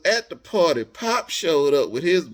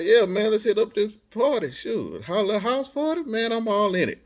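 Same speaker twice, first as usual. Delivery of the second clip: eager, pitched-up yes to the party; excited; 6 semitones higher than usual. Retold or imitated. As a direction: hype it up. Quoting himself excited about party.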